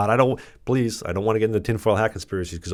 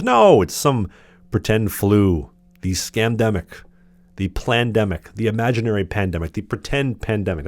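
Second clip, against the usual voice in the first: sarcastic list. Acted. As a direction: sneer through each mocking name. Listing mocking names for pandemic.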